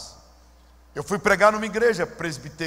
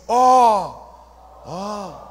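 mock disapproving ó; 6 dB louder than usual. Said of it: "Deu assim um, um ó".

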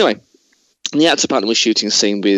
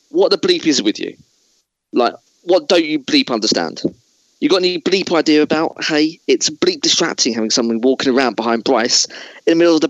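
a higher, pushier mock rant at the camera guy; Christian Bale tirade; 4 semitones higher than usual. Host as Christian Bale tears into the cinematographer. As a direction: berate him like a star whose scene got wrecked. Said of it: "I'm gonna be Christian Bale".

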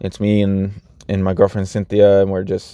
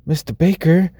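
put-on higher, startled child's voice; student recognizing her teacher at the mall, higher and startled; surprised little girl; 7 semitones higher than usual. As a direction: imitate a shocked kid spotting her teacher. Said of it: "And she's like".

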